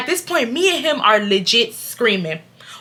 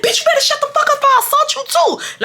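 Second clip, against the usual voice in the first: retold threat. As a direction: snap the threat back. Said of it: "So I said".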